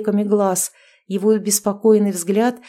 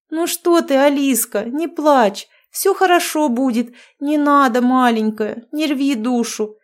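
tender witch friend; 4 semitones higher than usual. Acted. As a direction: comfort her like a little child. Witch friend soothes crying girl. (ласково утешает подругу)

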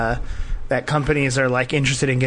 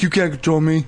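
digitized voice. Retold or imitated. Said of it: "It's like digitized voice".

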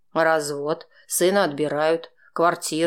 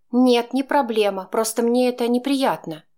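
higher, louder woman's voice, pointedly prickly; Chaika, sulky and provoking; testing his patience; 8 semitones higher, 3 dB louder than usual. A narrator's reading. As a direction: needle him on purpose. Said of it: "продолжала Чайка испытывать моё терпение".

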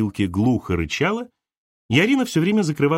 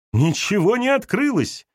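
higher, slowed, a light cry; mild shout; 10 semitones higher than usual. Acted. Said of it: "крикнула Арина". (Арина выкрикивает протест)

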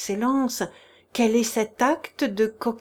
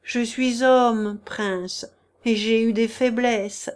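desperate plea. Acted. Chichikov begs the prince for mercy, raised and desperate. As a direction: beg him with theatrical self-pity. Chichikov's tearful pleading confession.

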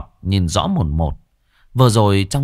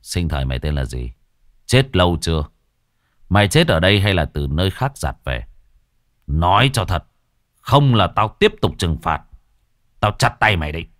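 lower, grave interrogation; lightly stern exorcist; 4 semitones lower than usual. Acted. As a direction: question the spirit like a strict judge. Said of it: "Cậu Tẩy nghiêm giọng".

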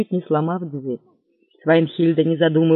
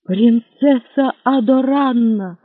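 slow, raised astonished cry; exclaimed; 6 semitones higher, 4 dB louder, slower than usual. Acted. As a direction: cry out in recognition. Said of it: "вскричал он".

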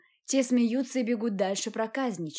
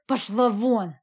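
sudden louder shout; man losing control, shouting Katya out; breaking into a shout; 5 dB louder, slower than usual. A narrator's reading. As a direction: snap and yell her out of the room. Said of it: "сорвался на крик".

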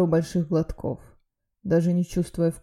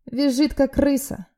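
smirking; 8 semitones higher than usual. A narrator's reading. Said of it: "ответил тот, ухмыляясь".

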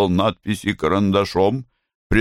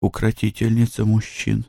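servile bowing; 2 semitones higher than usual. Acted. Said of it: "Блум, кланяясь".

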